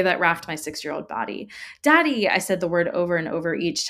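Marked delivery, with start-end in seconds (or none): 1.8-2.3 tearful cry. A narrator's reading. Sobbing child clings to rescuing father.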